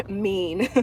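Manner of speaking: playfully wounded; teasing mock offense; laughing mock hurt. Real, not acted. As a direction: laugh through "Mean" with a rise. Reacting to a comment, laughing.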